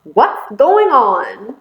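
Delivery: bewildered question, stretched out slowly; puzzled and drawn-out, lilting up at the end; confused. Acted. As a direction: ask it slowly, utterly baffled. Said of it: "Jim was confused".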